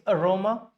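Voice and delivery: aroma as uh-RO-ma; weak first A, strong RO in aroma; schwa first, second stressed. Shown as a demonstration. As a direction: aroma without a full A at the front. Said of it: "aroma is not A".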